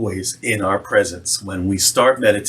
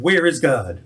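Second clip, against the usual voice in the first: mildly raised voice; 4 semitones higher than usual. A narrator's reading. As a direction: narrate a clergyman pressing sternly. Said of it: "raised his voice even more".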